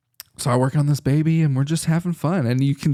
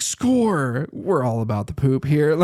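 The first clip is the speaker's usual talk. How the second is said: higher-pitched triumphant exclamation; excited cheer; 3 semitones higher than usual. Retold or imitated. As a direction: celebrate like you just scored. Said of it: "really excited".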